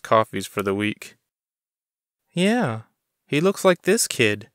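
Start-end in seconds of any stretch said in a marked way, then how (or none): 2.3-4.5 much higher woman's voice, sly and confiding; conspiratorial. A narrator's reading. Clerk Bonnie hinting to Chris she knows, high conspiratorial voice. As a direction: lean in and hint at a secret.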